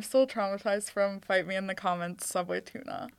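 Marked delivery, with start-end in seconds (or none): 2.3-3.2 laughing. Real, not acted. Laughing at old episode.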